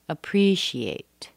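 slow "Appreciate" finishing on a clear "ate"; ending in ATE. Shown as a demonstration. Teacher shows the ending as in graduate, clear ATE. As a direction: say "Appreciate" as uh-PREE-shee-ATE. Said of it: "we finish with ate".

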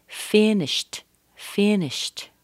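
"finished" ending in an unvoiced sht. Shown as a demonstration. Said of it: "it's pronounced as a t".

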